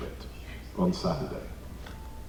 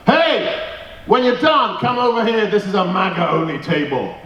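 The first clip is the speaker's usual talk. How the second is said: higher mock call across the room; retold shout; 5 semitones higher than usual. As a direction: call over to him like across a cafe, half-hearted. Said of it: "shouts over".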